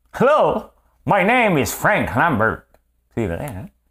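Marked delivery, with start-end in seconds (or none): 0.2-2.7 loud, very high put-on Southern rural twang. Showing how switching languages changes personality, redneck accent. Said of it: "à un redneck".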